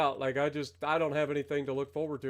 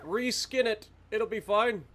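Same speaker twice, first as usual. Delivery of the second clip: mocking developers; 5 semitones higher than usual. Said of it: "They're just like".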